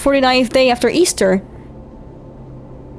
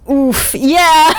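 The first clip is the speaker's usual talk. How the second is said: excited; 9 semitones higher than usual. Real, not acted. Reacting to own joke.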